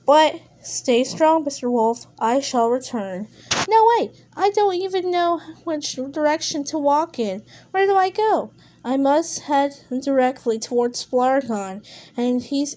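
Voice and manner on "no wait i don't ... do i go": higher pitched, urgent; alarmed, pleading; panicky plea. Acted. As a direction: beg him not to leave. Wolf panicking as guide leaves.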